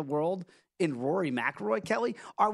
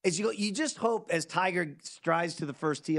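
normal talking voice

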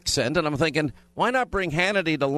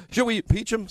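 mock giddy newsreader, pitch climbing higher; 3 semitones higher than usual. Host mocks giddy news anchors with rising, breathless excitement. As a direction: ham up breathless glee over impeaching. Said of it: "And then the giddy".

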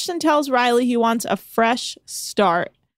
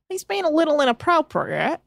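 put-on New Zealand accent; 6 semitones higher than usual. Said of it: "So I'm kinda somewhat have this accent down".

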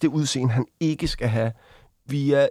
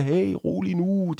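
imitated calming bystanders; 5 semitones higher, 4 dB quieter, slower than usual. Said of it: "og folk, der bare siger".

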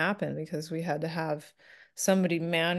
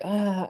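relaxed yawn; 3 semitones higher than usual. Retold or imitated. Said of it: "I'm yawning".

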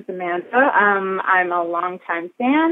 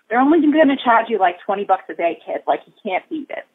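put-on Boston accent. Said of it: "the monologue that I usually give back to them, which goes a little something like this".

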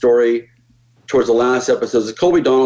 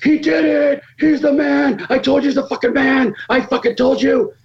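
much higher, jubilant imitated cheering; excited crew cheer. Crew celebrating after he hits the shot, much higher excited cheer. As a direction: crow it like a fan whose bet came good.

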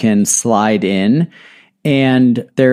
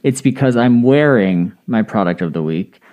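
muffled. Real, not acted. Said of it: "If I sound a little muffled".

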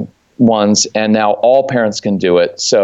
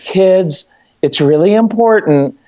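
lightly higher pleading mom tone; a hint of begging the kids; sweet mom voice; 6 semitones higher than usual. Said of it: "Anything that starts with".

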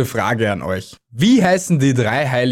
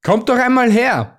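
much higher, friendly invitation; friendly call; 10 semitones higher than usual. Acted. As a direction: call the shy animals over kindly. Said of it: "forderte sie Erzengel Michael freundlich auf".

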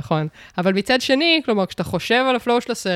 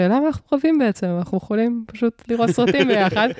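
retold realisation; 5 semitones higher than usual. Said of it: "ואז היה איזה רגע של".

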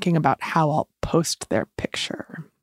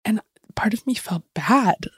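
whispering while hiding; 3 semitones higher than usual. Real, not acted. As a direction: whisper it, trying not to be heard. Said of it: "I'm hiding in the bathroom right now recording this".

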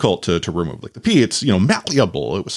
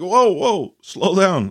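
higher, urgent mock panic; panicked; 9 semitones higher, much slower than usual. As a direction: halt her quickly in a retold panic. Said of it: "I'm now in panic mode".

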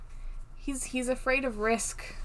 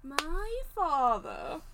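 put-on British accent; 4 semitones higher, much slower than usual. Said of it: "try the accent of that".

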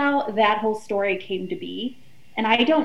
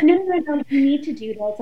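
louder, higher rush of no no no; insistent no; 5 semitones higher, 3 dB louder than usual. Retold or imitated. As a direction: cut her off and insist she goes. Insisting friend stay on show.

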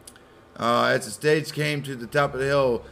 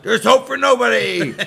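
mock despair; 10 semitones higher, 8 dB louder than usual. Heartbroken reader mocked.

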